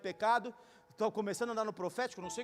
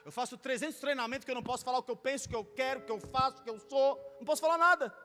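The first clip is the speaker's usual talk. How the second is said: loud, driving pulpit voice, high and fervent; preaching at full force; 3 semitones higher, 6 dB louder than usual. Acted. Preacher urging the church to proclaim truth, full force. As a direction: hammer the truth home to the crowd.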